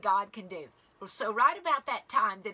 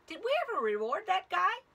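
voiced king; 9 semitones higher, faster than usual. King voiced in retold story.

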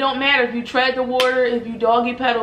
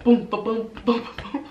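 heartbeat. Retold or imitated. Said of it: "It was like".

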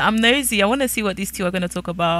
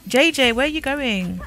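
higher-pitched call; calling after someone; 6 semitones higher than usual. Real, not acted. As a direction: call after him as he leaves. Calling after a departing character.

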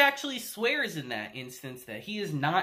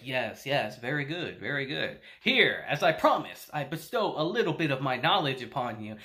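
lofty indifference; 5 semitones lower, 4 dB quieter than usual. Retold or imitated. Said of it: "And Ainz is like".

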